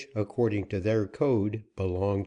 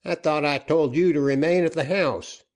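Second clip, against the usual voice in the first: angry scolding; 7 semitones higher, 6 dB louder than usual. Acted. Joaquin scolds the woman.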